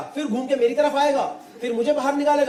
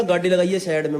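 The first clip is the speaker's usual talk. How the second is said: put-on Haryanvi accent; 5 semitones lower than usual. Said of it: "एकदम खड़ी हरियाणी में बोला".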